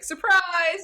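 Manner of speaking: mock surprise. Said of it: "Reese is like".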